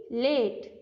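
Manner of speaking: लेट with the long A stressed; stress on vowel. Shown as a demonstration. Teacher showing students the long A, stressed vowel in लेट. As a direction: lean on the long A sound in लेट. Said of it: "ए पर कुछ stress दिया है".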